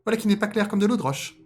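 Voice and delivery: high, loud cartoon voice; suspicious rabbit. Rabbit doubting the fox's story, high character voice. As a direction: muse aloud in a squeaky pitch. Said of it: "se dit-il".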